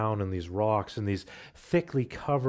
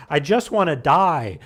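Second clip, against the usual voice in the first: despairing cry; 4 semitones higher, 9 dB louder than usual. Retold or imitated. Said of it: "a third one says".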